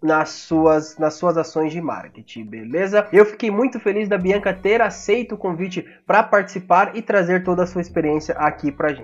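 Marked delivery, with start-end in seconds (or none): 3.1-9.0 raspy sore-throat voice; hoarse voice. Real, not acted. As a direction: talk through a scratchy sore throat. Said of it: "Já peço desculpa por essa voz de taquara".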